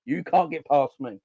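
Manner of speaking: lightly acted defender halting an opponent; Conor Bradley. Defender stops a young attacker in his tracks, lightly acted challenge. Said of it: "Conor Bradley was like".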